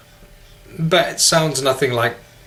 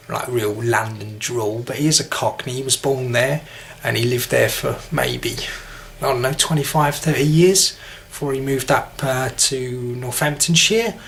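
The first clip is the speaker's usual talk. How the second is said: London Cockney. Shown as a demonstration. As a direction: talk like a London-born Cockney. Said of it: "something like I was just doing".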